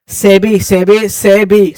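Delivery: सेबी repeated slowly with a clear opening "s"; sounded-out pronunciation. Shown as a demonstration. Teacher showing students the first sound, slow sounded-out pronunciation. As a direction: say सेबी as one word, starting on "s", drawn out. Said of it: "स से पढ़ते हैं".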